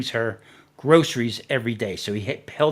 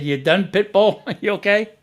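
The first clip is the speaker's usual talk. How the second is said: higher, louder mock questioning; imitating teasing check-in; 6 semitones higher, 5 dB louder than usual. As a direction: replay a partner checking if the fit is over. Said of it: "She said, she said".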